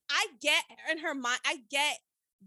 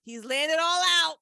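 retold excitement; 3 semitones higher, 6 dB louder than usual. Re-enacts thrilled reaction to confession.

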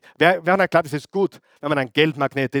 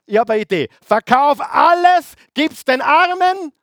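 Jesus proposing; 10 semitones higher, 5 dB louder than usual. Acted. Jesus telling the rich young man, high and loud. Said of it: "Und sagte".

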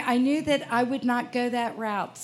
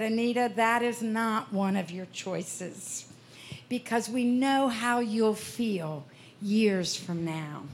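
loving. Retold or imitated. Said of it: "said to me very lovingly".

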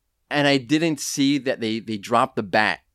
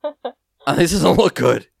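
wife's voice; 4 semitones higher, much slower than usual. Retold or imitated. Wife the nurse voiced.

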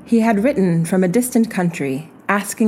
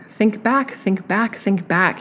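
repeated coaxing, starting higher then easing; urging; 3 semitones higher, slower than usual. Acted. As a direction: gently push her memory, fading each time. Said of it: "he urged me".

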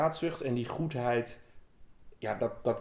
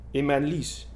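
"In mijn lies." said first, the milder of two takes; fussy poodle whine; 3 semitones higher than usual. Acted. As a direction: fret about the sore groin like a prissy little dog. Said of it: "nuffig tikje hysterisch poedeltje".

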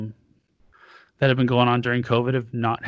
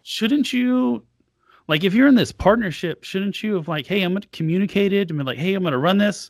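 exasperated rhetorical question; 5 semitones higher than usual. Retold or imitated. Venting about partner's poor communication.

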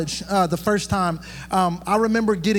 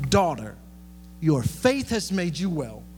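tender Jesus; 4 dB quieter than usual. Acted. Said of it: "this is my favorite part".

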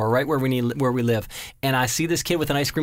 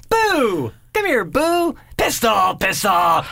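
calling a dog; 6 semitones higher, much slower than usual. Shown as a demonstration. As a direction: call the dog over from across the yard. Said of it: "all the way you say the name".

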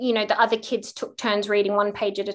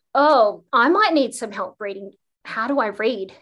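mock helplessness; 3 dB louder than usual. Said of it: "pretending to be incompetent at reading".

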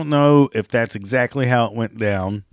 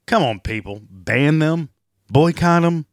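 mock rallying cry; 5 semitones higher, 3 dB louder than usual. Mocking the boycott calls.

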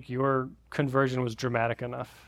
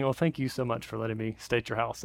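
polite; 3 semitones lower, 4 dB quieter than usual. Retold or imitated. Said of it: "I'm trying to do the nice, polite thing".

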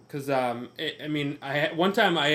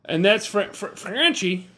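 stutter; 4 dB louder than usual. Real, not acted. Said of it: "I have a speech impediment".

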